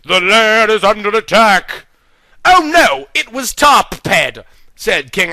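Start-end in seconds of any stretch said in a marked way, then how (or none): 0.0-1.9 loud voice. Acted. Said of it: "a loud voice rung out". 2.4-4.4 high, panicked gasp; alarmed. Acted. King Arthur alarmed.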